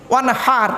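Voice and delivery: "ওয়ানহার" with h from inside the throat; throaty h. Shown as a demonstration. Preacher drilling the congregation on the word, throaty h. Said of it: "গলার ভেতর থেকে হে এটা উচ্চারণ করবে".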